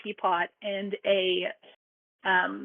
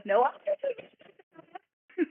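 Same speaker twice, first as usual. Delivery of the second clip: insistent Hatter voice; 7 semitones higher, slower than usual. Acted.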